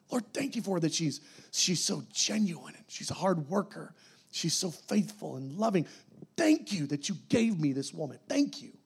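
a husband quietly thanking God for his wife, tender; sincere quiet prayer. Shown as a demonstration. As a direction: thank God gently for her.

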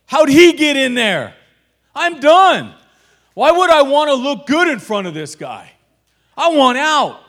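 high, loud fed-up shout; frustrated outburst. Retold or imitated. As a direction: blow up, done with it all. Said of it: "I just got so frustrated".

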